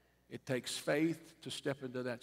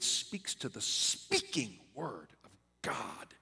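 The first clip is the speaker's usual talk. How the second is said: whisper. Acted. Hushed aside on God's word.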